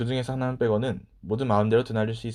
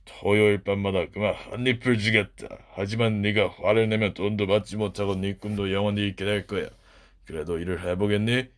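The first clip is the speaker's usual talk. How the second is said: castle master; 3 semitones lower than usual. Acted. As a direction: lay out the deal like a sly old lord. Master names the wages.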